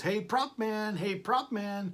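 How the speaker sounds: high calling yell. Retelling a cartoon scene where Paul calls for the prop man: imitating Paul yelling. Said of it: "So Paul would yell".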